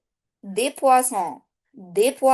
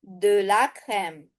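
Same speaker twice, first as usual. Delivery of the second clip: slow model; 3 semitones lower than usual. Shown as a demonstration. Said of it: "teacher models the partitive".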